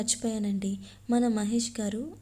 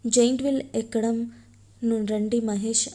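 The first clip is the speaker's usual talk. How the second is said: eager invitation; 5 dB louder than usual. Acted. Girl eagerly calls Mahesh onto ride.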